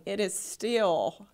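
trembling, barely holding it together; shaky voice. Real, not acted. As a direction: voice shaking with emotion. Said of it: "you can probably hear my voice shaking".

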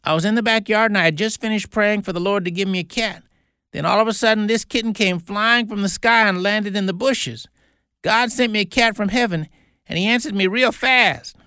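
put-on high, breathless-with-news little girl; excited child. A narrator's reading. Excited girl tells of her miracle.

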